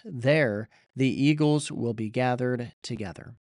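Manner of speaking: measured, steady Bible reading; scripture reading. Acted. Preacher reading scripture to his church, measured and steady. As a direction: read the passage out to the congregation. Reads the scripture passage aloud.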